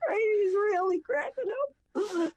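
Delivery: high, slow, breaking into laughter; laughing while talking. Real, not acted. Storyteller describing Frank losing it, helplessly laughing herself. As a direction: crack up mid-sentence.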